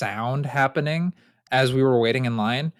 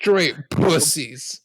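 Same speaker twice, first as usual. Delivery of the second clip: drawn out; much slower than usual. Acted. Echoing insult, drawn out.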